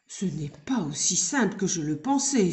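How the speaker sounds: breathy whispered sigh of defeat. Acted. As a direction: let it out on a tired sigh. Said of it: "soupira-t-il".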